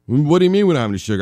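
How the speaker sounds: fast, loud, disbelieving repeat of we don't have any sugar; mock incredulous. Repeating the partner's words back at them, mock incredulous. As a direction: rattle it off in hammed-up disbelief.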